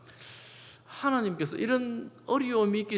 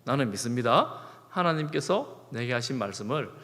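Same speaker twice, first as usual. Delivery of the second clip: calm reassurance; 5 semitones lower than usual. Acted. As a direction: speak as Paul calming the crew. Paul reassures the frightened crew.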